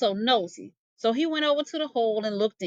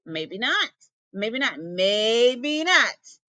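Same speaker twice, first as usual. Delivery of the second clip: hissing snake; much slower than usual. Acted. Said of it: "Snake just hissed".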